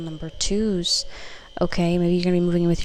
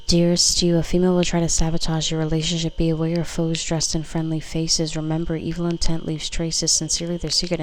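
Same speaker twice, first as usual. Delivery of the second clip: louder, declaiming the card's words; card message read; 4 dB louder than usual. Acted. Tarot reader reading a card aloud to viewers, louder and declaiming.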